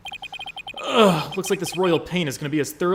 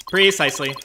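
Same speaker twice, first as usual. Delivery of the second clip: robot voice; faster than usual. Acted. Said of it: "robotic voice you have".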